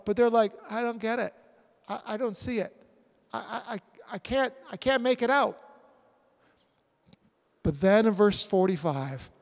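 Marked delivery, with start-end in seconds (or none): 0.7-5.6 stammering, mildly baffled; mock confusion. Disciples failing to understand the teaching, mildly baffled.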